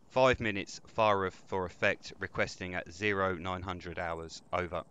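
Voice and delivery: slow, steady military radio voice; calm radio call for fire. Acted. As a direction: call in the fire mission calmly. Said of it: "Damn, you're professional".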